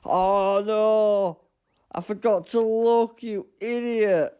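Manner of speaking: high, loud cry at his own blunder; frustrated shout. Real, not acted. Gamer yelling at himself over a missed check, loud. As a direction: yell at yourself for forgetting. Forgot to check, self-scolding.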